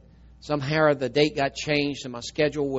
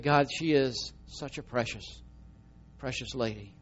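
slow and much softer, fading into tears; tearful prayer; 6 dB quieter than usual. Real, not acted. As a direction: breathe it out quietly as you cry. Crying, agreeing with God.

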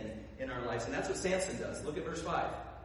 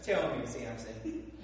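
seductive coaxing; 5 semitones lower, slower than usual. Retold or imitated. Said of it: "Grabs his bicep".

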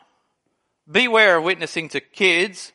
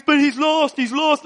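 much higher, pleading that the man is lost; anguished plea; 8 semitones higher than usual. Retold or imitated. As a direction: cry out in desperate concern for his soul. Anthony pleading.

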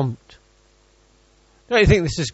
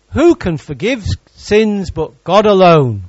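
slow and louder, Who leaned on hard; indignant question; 4 dB louder, slower than usual. Acted. Pharisees thinking to themselves, slow indignant challenge. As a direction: voice the Pharisees' outrage, slowly.

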